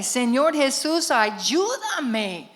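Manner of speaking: loud, slow desperate call to Jesus; retold cry for help. Lost woman at night crying out to Jesus, loud and slow. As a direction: cry out to Jesus in panic, half-reliving it. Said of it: "yo allí grité".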